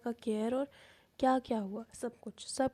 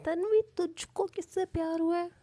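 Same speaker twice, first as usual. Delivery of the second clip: higher, probing suspicious ask; suspicious question; 7 semitones higher than usual. A narrator's reading. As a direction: pin her down with suspicion. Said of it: "शक भरी नज़रों से देखती है". (शक भरे लहजे में पूछना)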